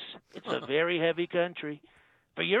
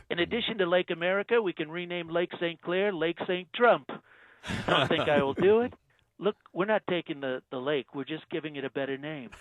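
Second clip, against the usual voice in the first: Trump impression. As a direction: play the president, smug and self-assured. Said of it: "Donald Trump".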